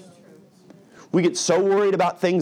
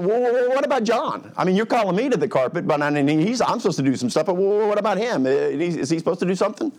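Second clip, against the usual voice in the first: whiny Peter; 5 semitones higher than usual. Retold or imitated. Peter deflecting, acted whiny.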